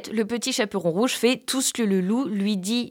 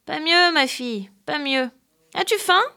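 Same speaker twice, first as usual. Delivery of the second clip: a lightly voiced plaintive old grandmother; 6 semitones higher than usual. Disguised villain pleading sickly to the girl, plaintive. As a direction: whimper it like a sick old woman. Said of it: "a dit d'une voix plaintive".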